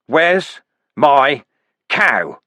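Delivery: loud, dazed demand for the cow; a bloodied madman demanding his toy; crazed demand. Acted. Vimes confronting the dwarfs, loud and crazed. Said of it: "glared at them and asked".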